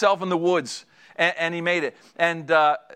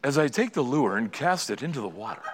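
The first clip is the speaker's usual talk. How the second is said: fishing show host; 3 semitones lower, 4 dB quieter than usual. Retold or imitated.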